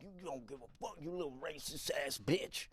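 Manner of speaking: man still mumbling insults as he follows. Retold or imitated. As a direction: keep grumbling it to yourself. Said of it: "still mumbling".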